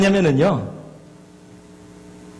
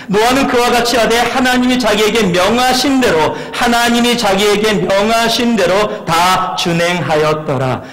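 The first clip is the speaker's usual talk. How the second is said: scripture reading. Acted. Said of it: "그 구절이".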